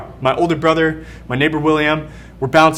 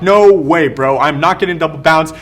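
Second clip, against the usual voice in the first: put-on louder, protesting kid refusing; loud refusal; 4 dB louder than usual. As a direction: push back hard on no way. Kid refusing the double bounce.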